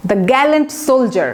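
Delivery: drawn-out, deliberate model sentence; slow example phrase. Shown as a demonstration. Teacher modelling an example sentence, slow and deliberate. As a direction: spell it out slowly for students. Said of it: "adjective".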